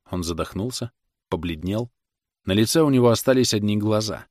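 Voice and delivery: plain reading voice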